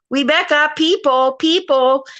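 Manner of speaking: lightly imitated Cantonese mother's accent; sing-song calling out like a Cantonese mother; a hint of a Cantonese mother's accent. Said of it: "I can impersonate his mother".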